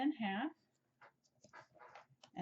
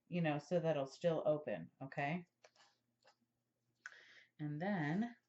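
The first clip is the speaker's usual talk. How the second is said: talking around a pin in mouth; 2 semitones lower than usual. Real, not acted. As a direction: speak with a pin between lips. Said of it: "I have a pin in my mouth".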